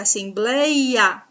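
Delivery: "assembleia" with a drawn-out BLEI; teacher's emphatic as-sem-BLEI-a; stress on penultimate syllable. Shown as a demonstration. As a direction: lean on "blei" in "assembleia", then a separate "a". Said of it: "a penúltima sílaba é a mais forte".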